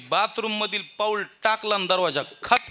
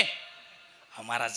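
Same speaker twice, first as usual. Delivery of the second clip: much softer slow plea; meek plea; 9 semitones lower, 13 dB quieter, much slower than usual. Retold or imitated. Father-in-law softly pleads with the preacher.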